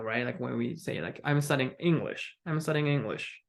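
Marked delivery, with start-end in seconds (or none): 1.2-3.4 both times "English" goes down; falling intonation. Shown as a demonstration. Teacher drills a statement for learners, falling intonation. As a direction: end each statement with falling pitch on "English". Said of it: "Just goes down".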